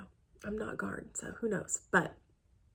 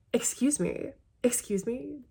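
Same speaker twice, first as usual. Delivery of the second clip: higher-pitched affronted reaction; mock-affronted, voice pitched up; indignant disbelief; 5 semitones higher than usual. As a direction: act offended on a friend's behalf. Indignant at the groomsman request.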